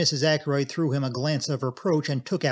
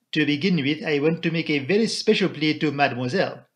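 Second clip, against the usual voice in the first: Poirot; 2 semitones higher than usual. Acted.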